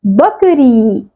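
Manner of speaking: बकरी said very slowly, each syllable distinct; slow clear word demo. Shown as a demonstration. Teacher revealing the finished word to children, slowly. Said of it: "तो शब्द क्या बन गया".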